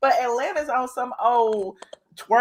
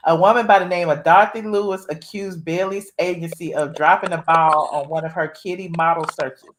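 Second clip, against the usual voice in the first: lower, measured read-out voice; reading an article aloud; 5 semitones lower than usual. Real, not acted. Host reads a fraud story to caller, read-aloud style. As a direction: read the news story out to listeners.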